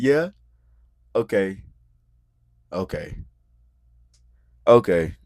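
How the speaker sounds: imitated "Okay", sinking with each repeat; spaced-out "Okay", each one falling in tone; tone going down. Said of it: "you can hear her tone going down".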